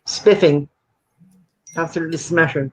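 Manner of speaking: put-on plummy posh British accent; upper-class English toff accent. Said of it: "What is that accent, man?".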